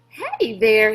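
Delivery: loud friendly holler from a jeep; hollered greeting. A narrator's reading. Beauchamp hollering hello to Rob from his jeep, loud. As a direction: call it out across the lot. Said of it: "he hollered".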